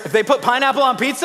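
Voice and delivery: excited fast shout. Acted. Mocking the pineapple pizza crime.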